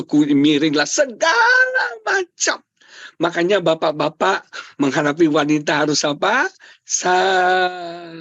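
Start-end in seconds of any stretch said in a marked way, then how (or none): 0.9-2.6 high, long-stretched wail; comic exasperation. Real, not acted. Husband sums up wife's photo complaints, exasperated wail. 6.8-8.1 "Sabar" with a long held first syllable; drawn-out exhortation. Real, not acted. Preacher telling husbands, "Sabar" long drawn out. Answers own call: be patient.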